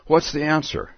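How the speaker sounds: Alice asks for the answer; Alice asking. Acted. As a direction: ask it as young Alice. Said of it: "says Alice".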